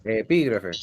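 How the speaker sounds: "Epígrafe" acentuado en la í; palabra esdrújula. Shown as a demonstration. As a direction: muestra "Epígrafe" como esdrújula, con la í tónica. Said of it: "Es una palabra esdrújula". ("Epígrafe" con el acento en la antepenúltima sílaba)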